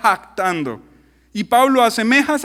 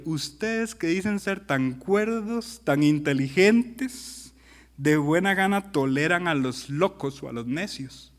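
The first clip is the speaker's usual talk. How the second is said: sarcastic; 4 semitones lower, 5 dB quieter, slower than usual. Acted. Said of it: "¿vieron el sarcasmo?".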